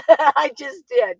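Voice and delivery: slow, laughing repeat. Real, not acted. To the viewer about raising four children, chuckling. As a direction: let a laugh carry the words, slowly. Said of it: "repeat of I just did".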